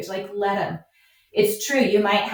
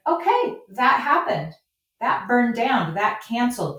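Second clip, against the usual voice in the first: high-pitched, matter-of-fact tallying of mishaps; breezy acceptance; 4 semitones higher than usual. Acted. Farmer talking herself through challenges, breezily accepting. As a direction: tick off the setbacks lightly, pitched up. Acts out accepting each setback.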